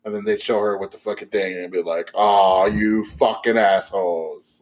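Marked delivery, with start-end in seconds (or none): 2.1-4.6 slow, drawn-out mock outrage; super pissed. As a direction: draw out the curse like an imagined let-down viewer. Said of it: "I'd be super pissed".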